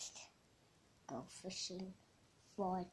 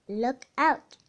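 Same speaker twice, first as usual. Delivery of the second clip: higher, much louder cry; shouted warning; 4 semitones higher, 12 dB louder than usual. A narrator's reading. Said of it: "shouted Scout".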